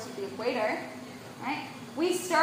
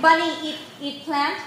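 put-on caveman talk in an Indian accent; playful caveman with Indian accent. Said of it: "My caveman has an Indian accent".

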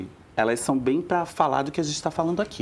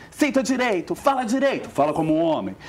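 scolding parent; 4 semitones higher than usual. Retold or imitated. Adults scolding a feminine child.

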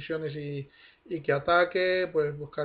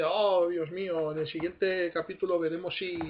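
dramatic teaser voice. Pretend. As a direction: build suspense like a TV trailer. Mock episode cliffhanger teaser.

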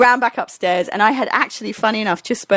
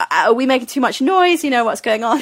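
higher, questioning voice; retold anxious query; 4 semitones higher than usual. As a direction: imitate an uncertain voice calling out. Retold worried voice round the corner.

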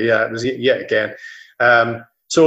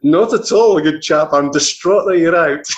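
put-on home counties English accent, pitched up, louder; posh English accent; 5 semitones higher, 5 dB louder, slower than usual. Scottish reporter answering a fan in a home counties English accent. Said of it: "putting on my English home counties accent".

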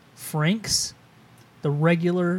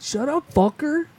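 much higher, slow fake British snap; bad British accent; 10 semitones higher than usual. Shown as a demonstration. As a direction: drag out a terrible British insult. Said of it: "shittiest British accent".

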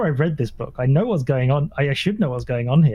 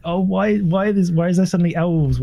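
slightly higher, baffled complaint; mock exasperation; 4 semitones higher than usual. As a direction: replay a fed-up viewer's disbelief. Mimicking exasperation at endless film endings.

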